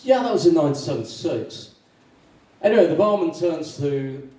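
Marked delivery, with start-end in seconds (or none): 0.0-1.7 mildly animated echo; agree, settling down from the other's pitch; lightly voiced agreement. Second Irishman confirming the year, lightly acted.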